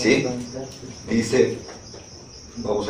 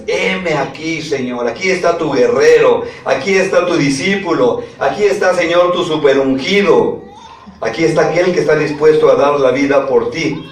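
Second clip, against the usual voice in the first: higher, fervent volunteering; eager declaration; 3 semitones higher than usual. Acted. Preacher models a believer answering the Lord's call, eager and fervent. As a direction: offer yourself to God with rising zeal.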